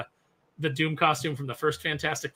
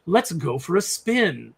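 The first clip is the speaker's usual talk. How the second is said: slow, drawn-out movie quip; quoting Doom's pun; much slower than usual. Retold or imitated. Quoting Doom's pun from the movie, slow. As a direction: drag out the cheesy line. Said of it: "He goes".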